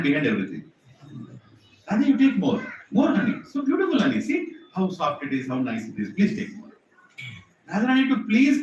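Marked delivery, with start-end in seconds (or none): 1.9-6.7 lightly voiced mischievous Krishna, wheedling; coaxing Krishna. Krishna coaxing Radha to eat honey, sweetly. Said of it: "Krishna is very mischievous".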